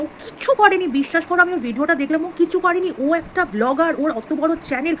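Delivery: indignant outburst. Real, not acted. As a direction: insist she did nothing wrong, heated. Defending the girl, indignant. (উত্তেজিত প্রতিবাদ)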